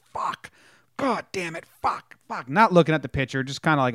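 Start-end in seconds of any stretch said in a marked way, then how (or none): 0.1-2.5 held-back imitation of screamed swearing; mock frustrated scream. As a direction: scream it at reduced volume, venting at nobody. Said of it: "He's just screaming".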